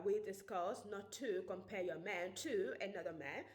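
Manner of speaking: light attempt at a British accent on "compare your man to another man"; a self-confessed shaky try at British English. Shown as a demonstration. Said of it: "I am going to do my British accent".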